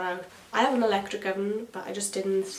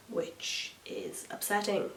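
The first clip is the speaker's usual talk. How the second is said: mock sad aside; 7 dB quieter, slower than usual. Real, not acted. Disappointed aside.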